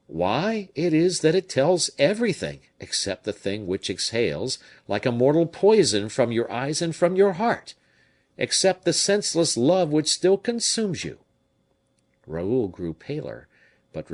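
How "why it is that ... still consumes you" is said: put-on higher, louder, insistent old soldier; captain reproaching. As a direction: press the point hard, half scolding. Captain reproaches Raoul's letter.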